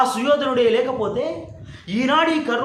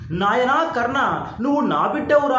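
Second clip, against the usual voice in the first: a mother's tender call; 2 semitones higher, 3 dB louder than usual. Retold or imitated. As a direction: savour each word as if hearing it from mother. Son echoes mother's words, moved.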